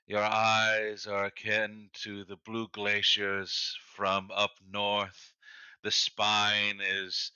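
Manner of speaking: slow, grand poetic recital; mock poetic recital. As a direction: recite it like a lovesick poet. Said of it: "something like".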